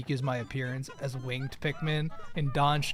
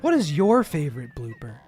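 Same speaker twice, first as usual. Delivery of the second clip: perky, loud YouTuber intro; lightly mocked energetic YouTuber voice; 3 dB louder than usual. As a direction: hype it up like a YouTuber host. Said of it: "in my YouTuber voice".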